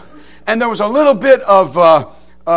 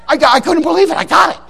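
triumphant; 8 semitones higher than usual. Real, not acted. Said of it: "nose hair triumph".

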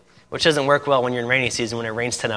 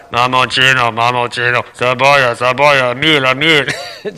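loud sing-song hawker calling out in Spanish; street vendor call; 5 dB louder, slower than usual. Retold or imitated. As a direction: cry out your wares like a street seller.

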